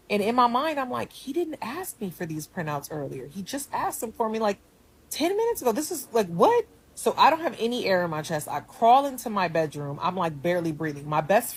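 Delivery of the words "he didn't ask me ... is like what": mild incredulous inner voice; inner disbelief. Retold or imitated. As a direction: protest in your head, ending on a high what. Inner protest, rising disbelief.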